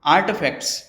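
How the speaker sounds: आर्टिफैक्ट्स in American English with the T half swallowed; US accent. Shown as a demonstration. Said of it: "US accent में pronounce करना चाहे तो". (अमेरिकी लहजे में आर्टिफैक्ट्स)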